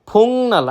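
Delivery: ফুংনাল with ng, not k; correct pronunciation. Shown as a demonstration. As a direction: say ফুংনাল, nasal ng before n. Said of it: "উচ্চারণ করি ফুকনাল, সেটা সম্পূর্ণরূপে ভুল".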